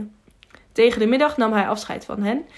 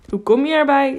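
raised, indignant retort; almost angry; 5 semitones higher, 4 dB louder than usual. A narrator's reading. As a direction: protest sharply, stopping short of anger. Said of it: "bijna boos". (bijna boos)

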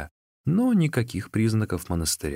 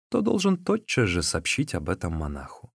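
ordinary delivery

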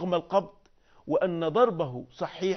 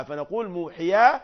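ordinary talk

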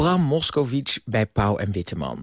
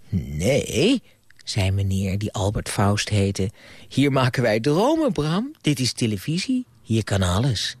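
storyteller voice, lively with character voices; bedtime story reading. Acted. Grandpa reading to a child at bedtime, gentle storytelling. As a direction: read it like grandpa at the bedside.

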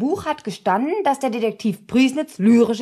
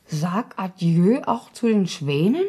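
slow, mock-poetic "Sag Adieu auch zu den Schwänen" with a rising end; wife reciting the detective's poem in a silly voice; silly recitation; 3 semitones lower, slower than usual. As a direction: savour the line like cheap poetry, a little silly. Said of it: "Wieso sagst du das so albern?".

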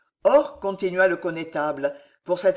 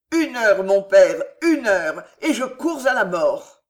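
loud, raised-pitch begging; desperate plea; 6 dB louder than usual. A narrator's reading. Son begs one hour before going to die, crying desperately. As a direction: plead at full voice, urgently.

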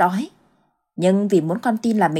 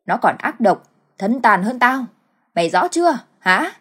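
mocking taunt. Mother taunts her son.

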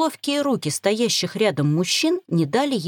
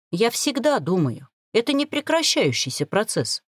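snide remark; 3 semitones higher than usual. Acted. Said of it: "Ехидно проронила я".

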